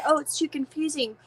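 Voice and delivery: mildly put-on objection; imitating complainers. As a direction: echo other people's complaint. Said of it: "People said".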